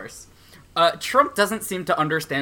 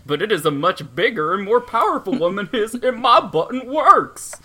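Donald Trump. Acted. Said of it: "funny, dangerous Donald Trump voice".

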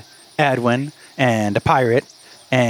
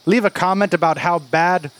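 lightly put-on Irish lilt; bad fake Irish accent; 5 semitones higher than usual. Game master apologizing to Irish listeners, in a fake Irish accent. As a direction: keep up the mock Irish brogue. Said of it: "how bad my fake accent is".

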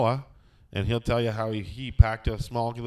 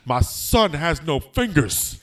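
slow, louder, higher outburst as the offended father; indignant retort; 4 semitones higher, 5 dB louder, slower than usual. Retold or imitated. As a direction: draw out an outraged mock reply. Acted punchline of angry wrestler's reply.

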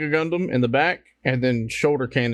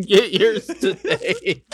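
chipper 1950s ad; 6 semitones higher, 3 dB louder, slower than usual. Pretend. Mock ad pitch for nanomeds.

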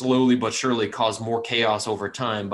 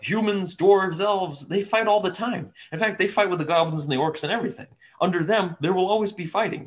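higher, quick, persuasive dragon; persuasive dragon villain; 8 semitones higher than usual. Acted. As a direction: argue like a smooth-talking dragon. DM voices green dragon's argument.

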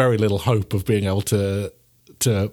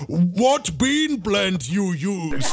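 slow, higher brute voice, laughing; barbarian; 7 semitones higher, much slower than usual. Acted. Barbarian asking the furious owner about beans, slow brute voice. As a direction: ask it like a dim brute, slowly. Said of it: "I'm like".

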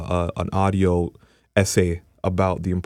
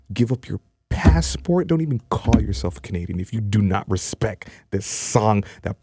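bully. Pretend. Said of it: "Let me put on my bully voice".

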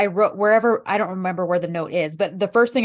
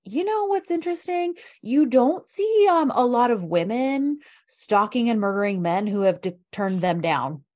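sarcastic mock-sweet; slower than usual. Sarcastic mock-sweet retort to critics.

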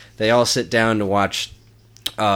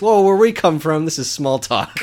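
higher, louder puppet voice; Bert voice; 7 semitones higher, 4 dB louder than usual. Retold or imitated. Bert explains small talk to Doc, puppet voice. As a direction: deliver the punchline deadpan. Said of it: "Bert says".

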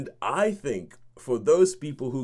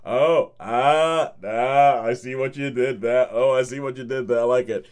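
delighted in the cinema; 5 dB louder than usual. Retold or imitated. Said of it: "sitting in the cinema going".

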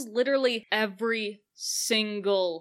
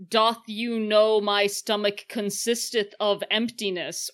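fake Shakespearean.

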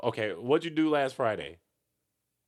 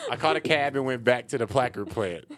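Michigan accent; 2 semitones higher than usual. Shown as a demonstration. Setting the co-host a test sentence, Michigan accent. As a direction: demo Michigan short A in "cab", "back", "plant". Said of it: "where you get the Michigan accent".

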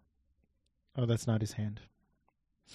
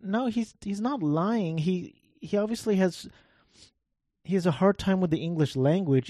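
excited; 6 semitones higher than usual. Retold or imitated. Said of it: "And I'm like".

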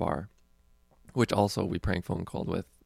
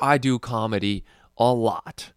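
exaggerated mock voice for the guy, a bit louder; 2 semitones higher, 5 dB louder than usual. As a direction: overdo his delivery, then admit he doesn't talk like that. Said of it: "He doesn't even sound like this".

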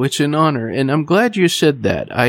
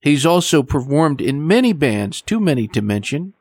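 measured, scripted announcer delivery; radio host introduction. Acted. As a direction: present the guest like a radio host, phrase by phrase. Host's formal scripted show introduction.

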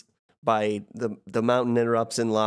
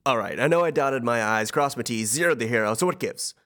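lightly voiced smug underworld god; fast-talking slick villain, understated; Hades voice. A friend asked for his Hades voice, so he does it. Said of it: "the better Hades voice".

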